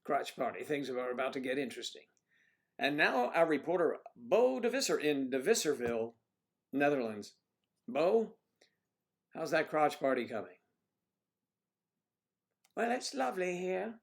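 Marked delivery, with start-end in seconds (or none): 2.8-10.6 mock news anchor. Mock news handover to a reporter. 12.8-13.9 put-on high-pitched stab at a Dutch accent; attempted Dutch accent. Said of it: "Can't do your accent".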